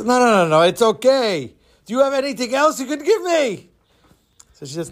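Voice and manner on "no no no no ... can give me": high put-on old man voice; disguised fishmonger voice. Disguised Don coaxes the girl for payment, changed voice. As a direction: play an old fish seller, pitched up. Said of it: "changes his voice".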